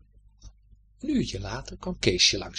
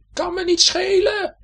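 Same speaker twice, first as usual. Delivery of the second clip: high, loud, slow angry shout; angry cry; 8 dB louder than usual. Acted. The left shoe shouts angrily at the right shoe. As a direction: hurl it back in a rage. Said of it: "riep de linker nog kwaad".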